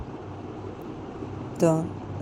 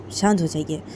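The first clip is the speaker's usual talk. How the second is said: calming plea. Acted. Calming the angry mother.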